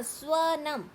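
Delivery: स्वनम slowly, with sw joined and short a; careful correct pronunciation. Shown as a demonstration. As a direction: sound out स्वनम as swa-nam. (स्वनम धीरे और साफ़, स्व मिलाकर)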